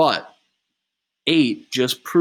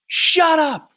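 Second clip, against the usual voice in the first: furious shout; 6 dB louder than usual. Acted. Three explodes at Eight.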